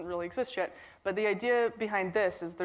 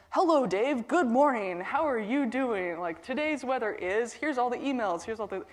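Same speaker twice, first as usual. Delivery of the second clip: louder, higher cheerful smart-home voice; computer voice; 4 semitones higher, 4 dB louder than usual. Retold or imitated. Smart home computer greeting the sleeping guy, bright and loud. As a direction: play an overeager home assistant greeting you. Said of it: "the computer voice says".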